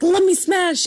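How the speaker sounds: imitating female friend. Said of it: "our female friend was like".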